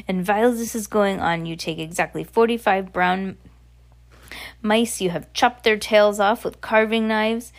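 put-on lightly accented witch reciting a recipe; instructing witch. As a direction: dictate it with villainous relish. Voices the Grand High Witch.

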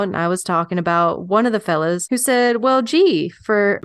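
lightly put-on old West storyteller accent; a hint of folksy Western accent; L'Amour's accent. Telling of a man who rode with Billy the Kid, light accent. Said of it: "I'm loving the accent".

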